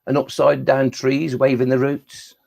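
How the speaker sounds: rhythmic, measured verse reading; poem recital. Acted. Poet performing nonsense verse for children, rhythmic recital. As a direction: recite rhyming nonsense lines with a steady bounce.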